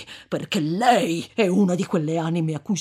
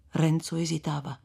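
ordinary delivery

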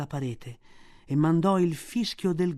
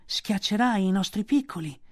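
cobras' complaint; 5 semitones higher than usual. A narrator's reading. The cobras complain about Mowgli, annoyed. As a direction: grumble like annoyed snakes. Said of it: "dissero i cobra".

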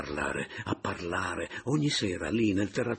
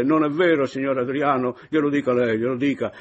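loud, higher playful appeal; coaxing; 8 semitones higher, 10 dB louder than usual. A narrator's reading. Caporale urging Meis to back her, loud playful coaxing. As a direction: press him playfully to agree.

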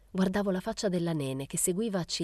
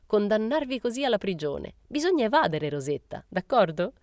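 raised, high-pitched playful exclamation; exclaimed; 6 semitones higher, 4 dB louder than usual. A narrator's reading. Momina urging Rosetta to escape, exclaimed. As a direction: proclaim it as a rallying call. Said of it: "esclamò".

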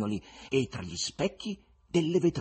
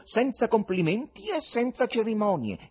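higher, louder call to the crowd; shouting invitation; 10 semitones higher, 5 dB louder than usual. Acted. Fagotto shouting to the audience to come up. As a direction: shout them up onto the stage. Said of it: "urlava Fagotto".

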